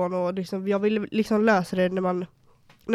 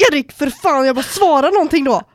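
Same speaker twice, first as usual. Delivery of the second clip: louder and higher, mock furious at the boyfriend; retold angry yell; 5 semitones higher, 9 dB louder than usual. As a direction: yell at him to answer, retelling it.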